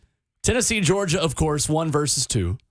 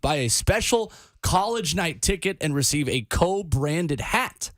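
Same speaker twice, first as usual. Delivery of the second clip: radio contest promo; 3 semitones higher than usual. Acted. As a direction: spell out the phone number. Promo read.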